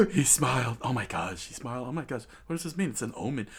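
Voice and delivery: quick, rising alarmed chatter; acted flurry of worry; mild crowd panic. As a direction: murmur anxiously like a startled crowd. Crowd reacting in alarm to smile.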